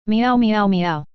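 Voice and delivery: a run of little meows; cat meows. A narrator's reading. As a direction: meow like a cat. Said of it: "let out a series of meows".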